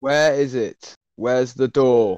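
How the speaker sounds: demanding shout. Real, not acted. Taunting a rival to reveal his door, demanding. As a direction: hammer the question, each word apart.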